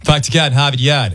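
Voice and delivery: slow, hammed-up Boston accent. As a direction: drop the R's like a Bostonian. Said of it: "the Boston accent".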